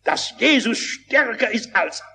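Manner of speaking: high-pitched, declamatory preaching. Real, not acted. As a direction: proclaim it to a whole congregation. Proclaims a parable in preaching tone.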